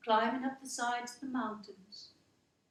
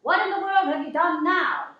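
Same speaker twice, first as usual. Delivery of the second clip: furious shout, much higher and louder; 7 semitones higher, 11 dB louder than usual. Acted. Mother yelling at her little girl over broken lamp, furious shout. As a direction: bark it at the child like an enraged mother. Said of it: "come up behind me and shout".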